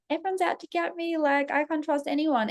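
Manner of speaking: paranoid self. Retold or imitated. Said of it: "where I'm like".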